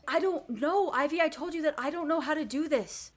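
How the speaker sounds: high, loud, frantic protest; desperate Naya. Acted. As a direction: cry it out, out of your depth. Naya overwhelmed, answering Ivy.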